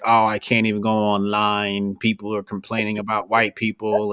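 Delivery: low, subdued mock complaint; retold complaining. Man complaining about online talk, retold as a low grumble. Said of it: "he was complaining like".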